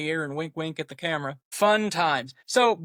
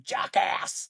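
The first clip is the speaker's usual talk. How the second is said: mock yell at ordinary volume; imitated yell; 3 semitones higher than usual. Host imitating Brule from No Holds Barred, mock yelling. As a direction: imitate a movie heavy's yelled insult. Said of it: "he's the guy that was constantly yelling".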